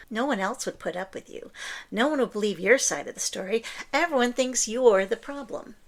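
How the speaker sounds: a listener's ex, mildly acted as the narcissist, accusing them; mock narcissist accusation. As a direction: throw the blame at them lightly, fast. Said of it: "The narcissist version would be".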